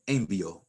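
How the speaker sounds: envío as EN-vyo, without the stressed í; stress on first syllable. Shown as a demonstration. Teacher showing the word without its accent, stress up front. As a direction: put the weight on EN in envío. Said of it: "If you don't put an accent mark there".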